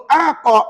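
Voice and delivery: "aqa" with an overlong opening "a"; drawn-out qalqalah. Shown as a demonstration. Teacher warning women against lingering, drawn-out "aqa". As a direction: stretch the first vowel of "aqa". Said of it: "jangan lama sebut".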